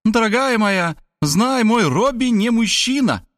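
high, grand proclamation; impassioned high mother voice; inspired. A narrator's reading. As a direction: declare it in high rapture. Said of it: "вдохновенно продолжала".

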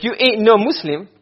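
you ain't no Muslim said slowly, weight on no; slow quote. Shown as a demonstration. Teacher spelling out a double negative to students, slowly. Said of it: "'cause it's double negative".

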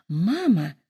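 put-on anxious girl crying out to mama; girlish exclaim. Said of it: "воскликнула Лидия".

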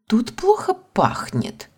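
put-on slow, squeamish girl's voice; pinched-nose disgust, lightly played; bad acting. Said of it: "Ларина сморщила нос". (брезгливый девичий голос)

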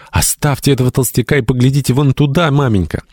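put-on high, excited girlish cry, narrated. A narrator's reading. Hetty interrupts her mother to point elsewhere, crying out. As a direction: cut in with a high-pitched exclamation. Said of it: "вскричав".

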